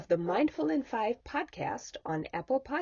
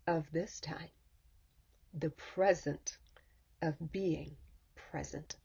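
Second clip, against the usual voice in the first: unhurried guiding voice with long pauses between phrases; guided meditation. Acted. Leads listeners into stillness.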